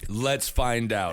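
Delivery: low, slow catchphrase imitation of a musician. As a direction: stretch it out low, mimicking the intro. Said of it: "and then he says".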